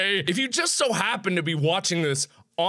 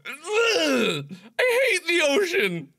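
real crying shout, voice pitched way up; anguished wail; 9 semitones higher, slower than usual. Real, not acted. Player wailing at the game after drowning, real crying shout. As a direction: howl in despair at the loss.

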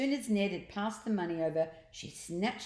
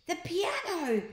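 urgent call; 11 semitones higher than usual. Acted. Ned calls out in panic.

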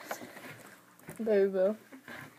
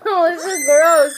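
disgusted; 5 semitones higher, 7 dB louder, slower than usual. Real, not acted. Tasting a gross bean.

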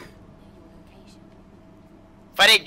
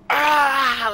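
high, drawn-out mock wail; mock agonised scream; 7 semitones higher, 4 dB louder than usual. Teammate mimicking the screaming he hears, mock agony. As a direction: imitate a gutted man's cry. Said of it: "Like somebody just got their intestines shoved".

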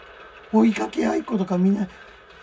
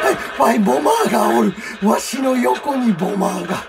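excited shout; 3 semitones higher, 6 dB louder than usual. Real, not acted.

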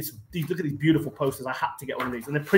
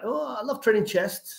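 slow and higher, stretching every word; drawn-out Ronnie imitation; 7 semitones higher, slower than usual. Retelling Ronnie's seminar answer to a friend, slow drawn-out imitation. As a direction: mimic Ronnie dragging out his answer for laughs. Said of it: "he draws this out over a couple of minutes".

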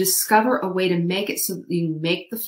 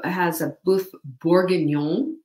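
put-on Julia Child. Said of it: "That's my Julia Child imitation".

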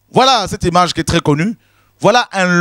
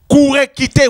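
urgent cry; 6 semitones higher than usual. Acted. Preacher urging flight from churches.

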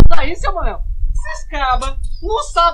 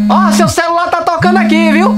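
loud, raised voice to be heard; calling out; 3 semitones higher, 6 dB louder than usual. Acted. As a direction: shout the news across the bar. Calling out across the bar.

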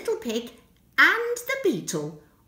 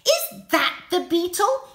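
triumphant trumpeting; 6 semitones higher, 6 dB louder than usual. Acted. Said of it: "he trumpeted triumphantly".

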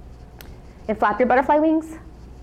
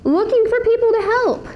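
story voice; 10 semitones higher than usual. Acted. Telling superhero story.

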